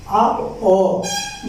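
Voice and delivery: a brief, clipped अ; short अ sound. Shown as a demonstration. Teacher demonstrating a short vowel to children, quick. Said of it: "जब आप अ का उच्चारण करते हैं".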